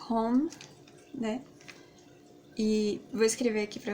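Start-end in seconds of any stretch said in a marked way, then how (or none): 0.1-0.5 홈을 천천히 또렷하게 "Home"; slow English home. Shown as a demonstration. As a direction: say "Home" slowly, with a breathy h. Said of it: "vou falar devagar".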